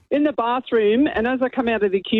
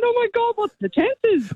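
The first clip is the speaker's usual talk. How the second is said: excited squeal; 13 semitones higher than usual. Retold or imitated. Cousins reunite, jumping around.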